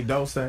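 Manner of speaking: "don't say" run together as "dohl-say"; quoted mispronunciation. Shown as a demonstration. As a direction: show Dolce pronounced like "don't say". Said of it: "It's D O L C E. They say".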